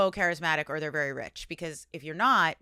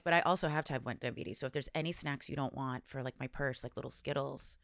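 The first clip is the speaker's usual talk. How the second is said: lower, softer sidling request; sheepish asking; 4 semitones lower, 5 dB quieter than usual. Retold or imitated. Asking friends for spare purse snacks, low sheepish mumbled plea. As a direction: drop down low and quietly ask for snacks. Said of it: "And then I'm like".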